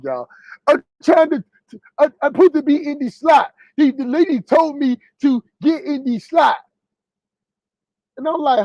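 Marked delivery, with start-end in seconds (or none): 0.7-6.6 imitating the other driver. Trucker mocks the other driver's voice while telling the parking fight, lightly imitated. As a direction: mimic him insisting on his slot. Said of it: "I'm trying to talk like he talk".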